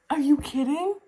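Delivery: high-pitched squeal of disbelief; disbelieving. Real, not acted. Reviewer reacting to a romantic scene, squealing disbelief. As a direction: squeak it out incredulous.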